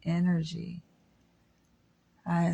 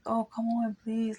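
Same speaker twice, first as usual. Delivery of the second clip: raised-pitch mock plea; mock begging; 5 semitones higher, 3 dB quieter than usual. Man begging a woman, mock pleading. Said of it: "begging a woman".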